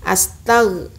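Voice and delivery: astag with the end cut off; wrong astag. Shown as a demonstration. Teacher shows the clipped astag. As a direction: clip astag short. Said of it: "jangan astag".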